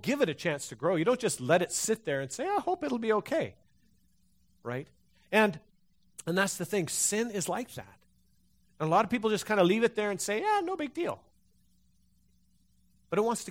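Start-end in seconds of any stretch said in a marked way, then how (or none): 2.5-3.5 mock hopeful. Mock careless hopeful quote. 10.4-11.2 mock dismissive. Mocking people dismissing sin.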